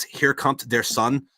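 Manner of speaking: slow, mock German "Here kommt der Sun"; German accent. Shown as a demonstration. Joking German is English: slow mock German accent. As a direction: lay on a jokey German accent, slowly. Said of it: "in German, the way you say".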